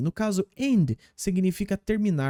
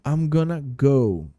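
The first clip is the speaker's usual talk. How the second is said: slow model; 3 semitones lower, slower than usual. Shown as a demonstration. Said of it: "Perceba só a pronúncia do gonna go".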